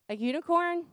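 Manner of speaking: put-on high, childlike questioning; imitating a small child's high-pitched guess; toddler's voice. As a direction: pipe up like an unsure little girl. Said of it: "That's what she calls a unicorn".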